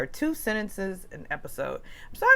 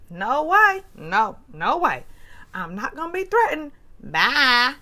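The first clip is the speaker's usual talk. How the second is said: mock storm-off; 6 semitones higher, 4 dB louder than usual. Sutton storming off, mimicked.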